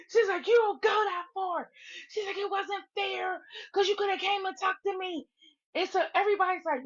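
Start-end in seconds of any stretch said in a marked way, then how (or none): 0.5-1.7 high, whiny imitation of her outrage; mock outraged protest. Woman scolding Slim for blocking her, mock outraged wail. 2.4-5.3 high, whiny imitation of her outrage; mock outraged protest. Woman scolding Slim for blocking her, mock outraged wail.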